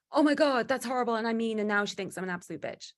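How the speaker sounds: high, loud gasp of dismay that settles as it goes; mock horror, opening high and easing down; aghast at first, then tailing off; horrified overreaction. Horrified overreaction to being called intimidating.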